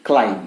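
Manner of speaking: "climb" as klime, no B; silent B. Shown as a demonstration. Teacher after spelling it out, silent B. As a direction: say "climb" ending on M. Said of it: "but pronounced as".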